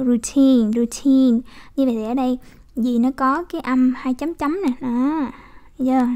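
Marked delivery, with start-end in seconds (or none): 0.0-1.4 "Routine" with both syllables slightly drawn out; long vowels. Shown as a demonstration. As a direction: hold the "ru" and the "teen" a touch. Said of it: "cũng đọc dài ra một tí xíu". (đọc "routine" hơi dài ra)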